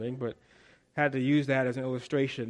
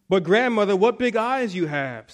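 put-on little girl voice; 4 semitones higher, 5 dB louder than usual. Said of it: "said Little Red Riding Hood".

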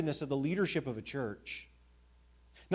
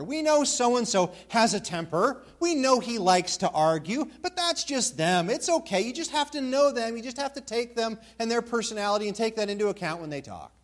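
lightly mimicked excuse, pitched higher; higher-voiced impression of making allowances; excuse-making churchgoers; 5 semitones higher than usual. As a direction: imitate people waving a problem away. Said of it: "you often hear people say something like this".

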